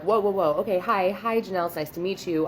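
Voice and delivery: retold taken-aback hello; flustered greeting. Studio owner greeting client with unexpected child, flustered.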